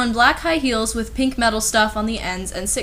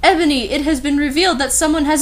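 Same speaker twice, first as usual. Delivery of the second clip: lightly voiced Dumbledore; 5 semitones higher, 4 dB louder, faster than usual.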